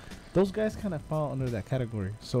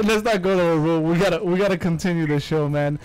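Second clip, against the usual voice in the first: loud cut-off; 4 semitones higher, 5 dB louder than usual. Real, not acted. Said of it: "you always get me ranting".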